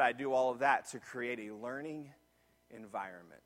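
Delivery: very low, soft quote with a pause before the end; hushed retold explanation. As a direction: let the key point sink to a hush. Teacher's key line, retold hushed.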